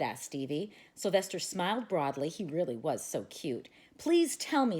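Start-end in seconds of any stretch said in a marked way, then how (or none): 4.0-4.8 high, eager begging. A narrator's reading. Boy begging his dog to share the idea, high and eager. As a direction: plead to be let in on the plan. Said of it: "Stevie begged".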